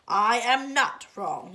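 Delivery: loud, slow scolding yell; angry shout. Acted. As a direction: shout it down flatly. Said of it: "Eugenia shouted".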